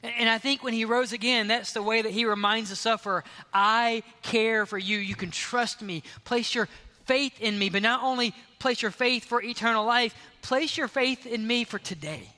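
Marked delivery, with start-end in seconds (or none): 3.5-12.3 higher, louder, fervent appeal; impassioned preaching. Retold or imitated. The risen Jesus speaking to the sufferer, loud and fervent. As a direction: plead with the sufferer with full force.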